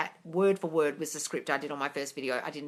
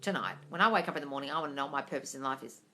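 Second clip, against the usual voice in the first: soft and much quieter, nearly hushed; quiet bedtime request; 5 semitones lower, 7 dB quieter than usual. Shown as a demonstration. Coach shows the bedtime plea to her subconscious, softly. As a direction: ask your subconscious gently, like a bedtime plea. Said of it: "Before you go to sleep at night, say".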